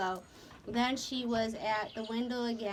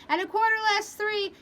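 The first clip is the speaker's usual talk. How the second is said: rumbling answer; 10 semitones higher, 6 dB louder, faster than usual. Acted. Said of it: "Kenzie's voice again".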